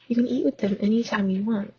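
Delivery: a quick, curt snap; snapped. Acted. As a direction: cut him off fast and short. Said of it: "Narcissa snapped".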